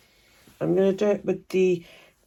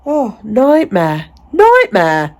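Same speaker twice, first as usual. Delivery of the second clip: weary sigh; 3 semitones higher, 6 dB louder, much slower than usual. Real, not acted. Sighing at the situation.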